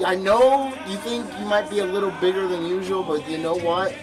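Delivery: reassuring. Retold or imitated. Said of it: "I was telling my girlfriend".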